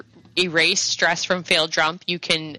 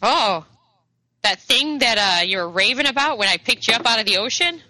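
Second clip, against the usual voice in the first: higher-pitched old woman, lightly voiced; old lady; 5 semitones higher than usual. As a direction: ask as a puzzled old lady. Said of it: "the old lady kinda gives you".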